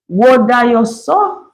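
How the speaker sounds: Bajan dialect. Shown as a demonstration. Host demonstrates how the phrase reads, in Bajan dialect. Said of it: "but to read the dialect".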